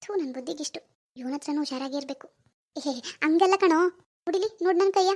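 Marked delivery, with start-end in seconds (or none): 2.8-5.1 mildly put-on plaintive pleading; lightly feigned suffering; playing for sympathy. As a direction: fake a touch of hurt, coaxing him to feel sorry. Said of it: "ಈಗೆಲ್ಲ sympathy ಕಾರ್ಡ್ನೇ use ಮಾಡೋದು".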